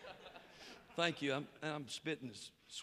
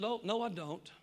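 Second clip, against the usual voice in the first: quiet, controlled retort; understated irritation, kept very calm; calm anger; 3 dB quieter than usual. Retold or imitated. Atheist calmly denies belief to the preacher, calm anger. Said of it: "calm-like and angry, but very calm".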